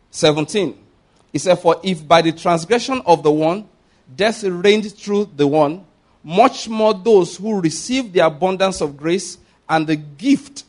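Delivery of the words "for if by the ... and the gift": slow, emphatic proclamation of scripture; scripture reading. Acted. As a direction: proclaim each phrase of the verse, unhurried. Reads scripture aloud to congregation.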